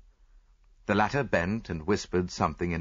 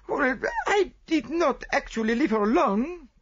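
reluctant; 4 dB louder than usual. A narrator's reading. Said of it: "admitted Celestine reluctantly".

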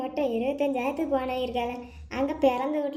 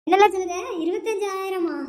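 higher, louder disbelief at the price; mother shocked at the phone's twenty-five thousand price; shocked outburst; 5 semitones higher, 5 dB louder than usual. Acted. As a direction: gasp out the number in disbelief.

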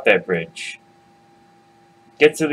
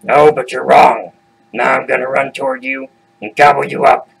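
troll threat; 5 dB louder than usual. Acted. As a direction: menace the goat like a hungry troll. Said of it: "And he says".

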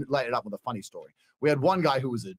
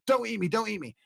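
begging; 4 semitones higher, 3 dB quieter than usual. Retold or imitated. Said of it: "he'd beg and beg".

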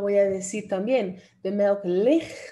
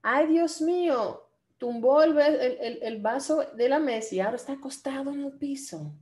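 mock dismay; 5 semitones higher than usual.

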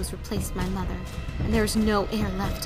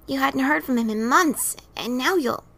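higher, louder, then left hanging; trailing off; 4 semitones higher, 6 dB louder than usual. A narrator's reading. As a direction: break off mid-sentence. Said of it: "he trailed off".

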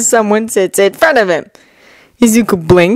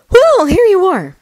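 smiling voice; 13 semitones higher than usual. Acted. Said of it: "a smile in his voice".

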